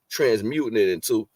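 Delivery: talking through a burp; words caught by a burp. Real, not acted. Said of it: "excuse me, I'm burping".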